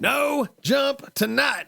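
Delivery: loud, high, slow shouted command; shouted order. Acted. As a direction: bark it out across the field. Acted order calling off the jump.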